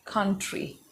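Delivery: country said softly, each sound separate; carefully articulated. Shown as a demonstration. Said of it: "separately articulate this word".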